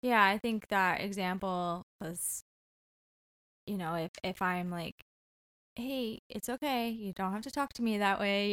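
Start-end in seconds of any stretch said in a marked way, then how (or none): 5.8-8.5 calm reply. Pretend. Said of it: "and I'm calm".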